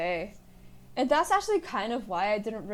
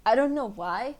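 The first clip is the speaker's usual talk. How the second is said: stoner voice; 3 dB louder than usual. Shown as a demonstration. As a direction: lean into a laid-back stoner tone. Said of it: "This tone of voice".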